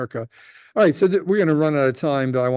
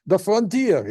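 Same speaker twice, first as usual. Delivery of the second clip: adventurous settler; 6 semitones higher, slower than usual. Retold or imitated. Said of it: "might say".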